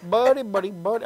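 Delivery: imitating an Indian priest; chant-like repeat in an Indian accent. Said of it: "my priest is Indian".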